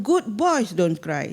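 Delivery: slow, drawn-out mock admonishment; imitated parental admonishment. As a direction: stretch it out like a parent admonishing a boy. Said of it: "Dia kata".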